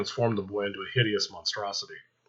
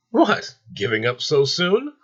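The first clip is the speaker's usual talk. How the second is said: mocking taunt; 7 semitones higher, 4 dB louder, slower than usual. Gabriel mocks Azrael while laughing.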